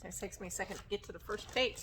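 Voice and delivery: ordinary delivery, nothing marked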